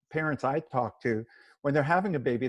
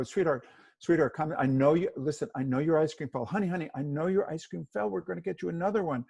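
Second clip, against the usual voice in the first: placating parent; 3 semitones higher than usual. Acted. Parent to toddler who dropped ice cream, placating. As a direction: talk over an upset child, trying to calm them. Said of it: "when a child is upset, we go".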